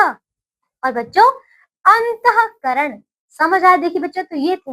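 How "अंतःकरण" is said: very slow, higher, every syllable stretched; slow teaching emphasis; drawn out slowly. Shown as a demonstration. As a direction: stretch the word out for the class. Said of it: "चलिए, अब देखिए".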